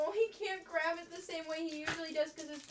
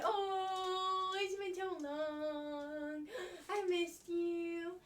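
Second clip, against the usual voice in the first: tearful; 5 semitones higher, much slower than usual. Pretend. Crying slow reunion words.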